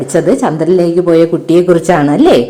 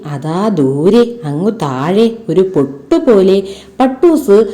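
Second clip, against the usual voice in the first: put-on lively storybook narration for children; ഉത്സാഹത്തോടെ കഥ വായിക്കുന്നു; story reading; 2 semitones lower than usual. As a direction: read the kite tale expressively to pupils.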